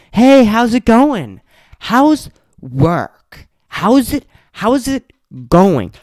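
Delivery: high, loud, slow sing-song greeting; mock cheery guests. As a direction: parody the nosy guests' chirpy small talk. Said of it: "twenty people just in your face".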